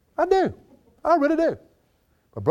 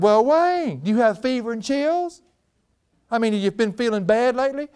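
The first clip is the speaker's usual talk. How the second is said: higher, raised voice of a worried colleague; concerned staff member; 8 semitones higher than usual. Retold or imitated. Staff member asking Wayne if he is sick, higher and worried. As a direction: ask as if he must be ill.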